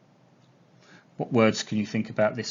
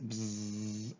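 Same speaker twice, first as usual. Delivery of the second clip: soft bee buzz; buzzing bee sound; 11 dB quieter than usual. Shown as a demonstration. Teacher imitates a bee.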